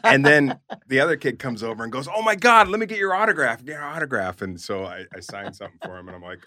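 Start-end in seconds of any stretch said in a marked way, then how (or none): 2.1-4.4 much higher and louder, breathless begging; eager autograph kid. Retold or imitated. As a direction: beg like a thrilled kid. Second kid begs for autograph.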